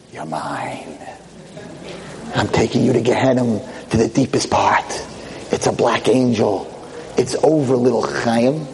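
lightly voiced low devil threat; a hint of low villain menace; menacing Satan.

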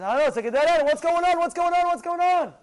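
loud, high, repeated demand; mock panic at being stuck; acted exasperation. Older single facing a dead end in matchmaking, loud exasperation.

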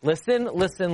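Listen, listen pressed out; insistent call for attention; insistent repeats. Shown as a demonstration. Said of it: "Imagine I say".

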